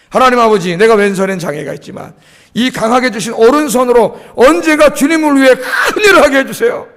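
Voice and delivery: acted prayer building to a shout; fervent prayer. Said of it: "기도했더니". (부르짖어 기도하듯)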